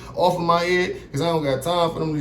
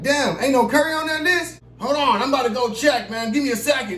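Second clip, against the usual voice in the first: high, surprised protest; pitched-up disbelief at the list; finding his name missing from the release list, high and surprised; 9 semitones higher than usual. Retold or imitated.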